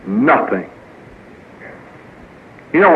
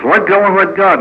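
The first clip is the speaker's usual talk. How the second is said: glib advice; 4 semitones higher, 3 dB louder than usual. Retold or imitated. Quoting someone's glib advice.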